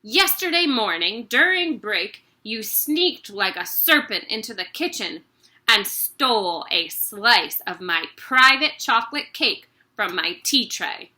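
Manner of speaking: loud ranting headmistress; angry accusation. Acted. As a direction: accuse him of stealing cake.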